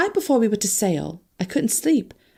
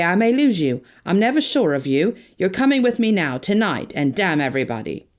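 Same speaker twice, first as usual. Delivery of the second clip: passionate outburst. Acted. Harry refusing to let Anne go, fierce.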